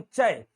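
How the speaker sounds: चय as "chaa-e", one gliding syllable; "ch" plus a two-part vowel in चय; blended vowel syllable. Shown as a demonstration. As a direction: glide चय from open "a" toward "e". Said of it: "तो क्या बोलेंगे".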